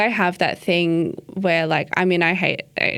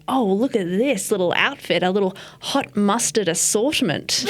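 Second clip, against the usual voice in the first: put-on boyfriend's teasing line. Boyfriend's witty line acted out.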